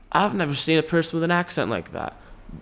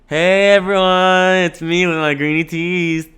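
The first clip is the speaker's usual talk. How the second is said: YouTuber intro voice; 5 semitones higher, 5 dB louder than usual. Acted.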